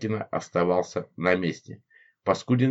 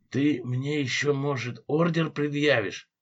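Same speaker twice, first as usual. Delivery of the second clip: higher, slow and mocking; gleeful mockery; 6 semitones higher, slower than usual. A narrator's reading. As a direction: tease the guard with glee. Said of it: "веселился Паскудин". (весело и насмешливо)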